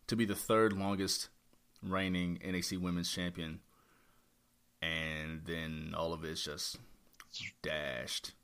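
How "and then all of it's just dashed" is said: hushed and low, for weight; dramatic whisper. Real, not acted. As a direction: whisper the loss like bad news. Lamenting a lost title run.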